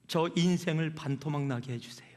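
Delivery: hushed whisper of a bitter prayer; prayed in a whisper, half under the breath. Retold or imitated. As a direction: breathe it out like a secret plea. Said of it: "어느 정도로 기도를 했어요?".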